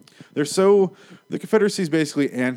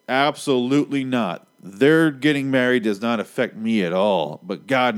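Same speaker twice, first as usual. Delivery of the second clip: loud, raised acted indignation; emphatic mock refusal; 3 semitones higher, 5 dB louder than usual. Objectors to gay marriage flatly refusing, emphatic mock refusal. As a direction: refuse outright, hitting it hard.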